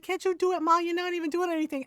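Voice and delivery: high-pitched replay of a brother's back talk; mock-indignant brother; mouthy teen brother retort. Brother talking back to his mom, high mock indignation. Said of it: "he's like".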